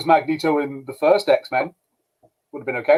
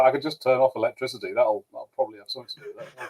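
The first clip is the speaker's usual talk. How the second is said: offhand Magneto; 3 semitones lower, 6 dB quieter, faster than usual. Retold or imitated. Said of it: "Magneto's like".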